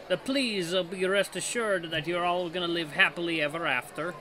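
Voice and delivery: lightly voiced bad French accent; French Mickey. Gamer voicing Mickey reassuring students, rough French accent. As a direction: attempt a French accent, none too surely. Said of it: "here's my French Mickey".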